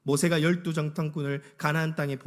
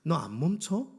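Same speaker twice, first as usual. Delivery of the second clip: threatening; 4 semitones higher than usual. Acted. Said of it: "끊임없이 이 이스라엘 백성들에게 찾아와서 협박하는".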